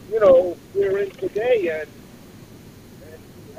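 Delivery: faint, distant voice on the phone line; phone held away. Real, not acted. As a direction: speak from far off the receiver. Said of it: "we're having a hard time hearing you".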